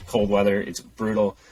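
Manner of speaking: stuffy nose. Real, not acted. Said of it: "I got this nasally ass voice".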